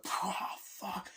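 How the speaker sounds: breathy whispered oh fuck; whispered curse. Retold or imitated. Henchman in the shootout, whispered curse. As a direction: gasp it under your breath.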